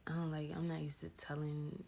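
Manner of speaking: talking through a mouthful of toothpaste; while brushing teeth. Real, not acted. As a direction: mouth full of toothpaste foam. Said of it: "Hold on, let me spit".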